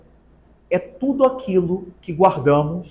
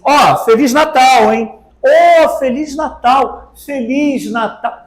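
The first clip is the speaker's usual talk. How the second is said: offhand greeting; 4 semitones higher than usual. Retold or imitated. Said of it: "a gente diz assim".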